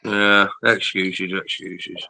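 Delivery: teasing. Real, not acted. Teasing disbelief.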